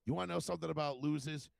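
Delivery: re-enacted teacher's threat, punchy; retold angry retort. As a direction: jab each phrase like a sore loser.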